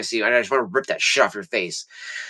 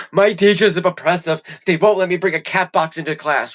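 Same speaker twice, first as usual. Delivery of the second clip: higher, lightly voiced complaining child; mock a whiny student, pitched up; whiny kid mock; 5 semitones higher than usual. Mocking kids who complain about teachers, a higher whiny voice. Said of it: "you have kids being like".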